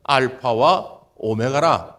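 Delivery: low, slow declaration; solemn declaration. Acted. God proclaiming Himself in Greek terms, low and slow. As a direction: speak it with solemn weight. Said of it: "헬라어 표현으로 하면".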